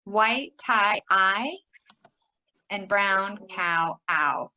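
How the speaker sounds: "White tie" drawn out, then "I" alone; slow "brown cow", then a lone "ow"; colour vowel drill. Shown as a demonstration. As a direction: isolate the glides "I" and "ow". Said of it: "let's keep going around".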